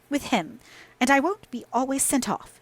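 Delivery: put-on girl flaring up at Catherine; kindling up. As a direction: flare up as you go. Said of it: "kindling up".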